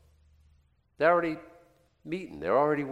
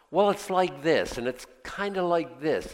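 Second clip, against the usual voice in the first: put-on valley girl; 5 semitones higher than usual. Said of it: "he sounds like a valley girl".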